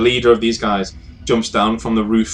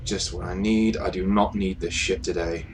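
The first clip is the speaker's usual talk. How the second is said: muttered grumble; 2 semitones lower, 6 dB quieter than usual. Acted. Jackal grumbles, fed up, softly.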